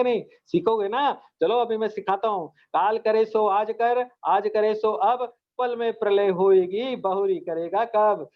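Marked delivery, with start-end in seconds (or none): 2.5-8.3 slow, measured recitation of a doha; recited couplet. Acted. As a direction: recite it like a verse, slowly. (धीमे से दोहा पढ़ना)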